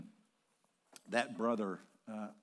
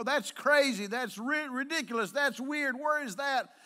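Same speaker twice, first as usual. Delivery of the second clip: high, loud, indignant incredulity; scornful disbelief; 9 dB louder than usual. Retold or imitated. Preacher voicing society's verdict on forgiveness, loudly incredulous. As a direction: rattle off loud objections, appalled.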